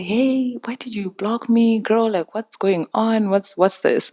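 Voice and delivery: high-pitched, mock confrontation; retold indignant questioning; mildly losing composure. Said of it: "as soon as I saw her, I lost it".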